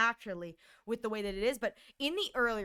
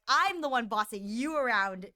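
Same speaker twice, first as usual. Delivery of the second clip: put-on bossy bunny girl; 2 semitones higher, 4 dB louder than usual. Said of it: "I want her to be like".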